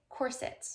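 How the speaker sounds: "corset" as COR-sit; "corset" stressed on COR; stress on first syllable. Shown as a demonstration. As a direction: say "corset" with a soft i at the end. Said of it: "Putting the emphasis on the first syllable".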